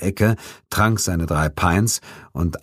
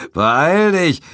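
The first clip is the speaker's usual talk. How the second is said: loud, high laughing call; loud leering call; 12 semitones higher, 5 dB louder than usual. A narrator's reading. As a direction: shout it after her, leering. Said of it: "rief Brigham mit einer rauen Lache".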